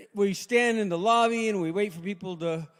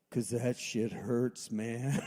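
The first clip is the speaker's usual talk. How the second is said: softer, slower afterthought; more quietly; 7 semitones lower, 6 dB quieter, much slower than usual. Retold or imitated. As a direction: drop it quietly as a confession. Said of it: "a little more quietly".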